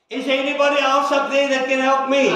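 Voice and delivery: the question said through real laughter; can't hold the laugh while asking; laughing through the punchline. Real, not acted. Preacher delivers the joke's punchline, laughing.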